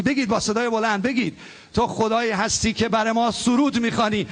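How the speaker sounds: fervent praise to God, led aloud for the church; worship prayer. Acted. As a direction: lift it up as praise for everyone to echo. Leads congregation in worship prayer.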